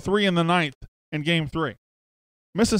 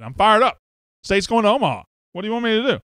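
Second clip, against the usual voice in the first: fired up yelling; 5 semitones higher than usual. Real, not acted. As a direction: shout it out, fired up. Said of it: "Why are you yelling at me?".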